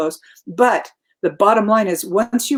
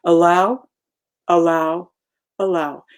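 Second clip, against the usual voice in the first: calm mantra; 2 semitones lower than usual. Shown as a demonstration. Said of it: "that's my little mantra".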